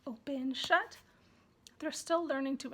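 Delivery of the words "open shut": playful sing-song. Shown as a demonstration. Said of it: "you can say".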